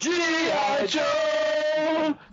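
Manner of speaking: stretched high cartoon shout; G I Joe catchphrase. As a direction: belt it like the cartoon intro.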